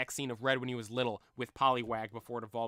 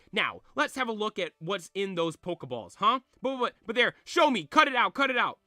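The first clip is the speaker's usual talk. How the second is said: put-on higher, louder gushing old man; excited old man; 5 semitones higher, 6 dB louder than usual. Fan club chairman fussing over Red, gushing old man voice. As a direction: gush over the boy's Pokeballs.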